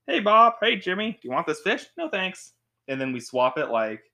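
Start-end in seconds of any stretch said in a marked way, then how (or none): 0.1-2.5 bright-pitched, chipper improv dialogue; higher-pitched back-and-forth skit voices; improv scene. Acted. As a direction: act out a light, lively scene. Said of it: "we acted out a scene like".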